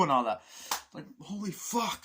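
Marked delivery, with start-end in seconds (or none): 1.2-2.0 high-pitched disbelief; horrified mock exclamation; acted shock. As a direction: imitate a stunned onlooker. Acting shocked soldiers' reaction.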